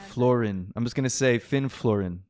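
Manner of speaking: "Florin" with no J heard; silent J. Shown as a demonstration. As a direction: drop the J entirely, "Florin" as FLOR-in. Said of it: "my guess is silent J again".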